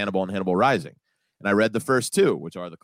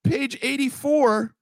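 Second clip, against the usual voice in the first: high-pitched, exasperated disbelief; incredulous reveal. Real, not acted. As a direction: build the punchline in a high, disbelieving voice. Reveals the book skips many pages.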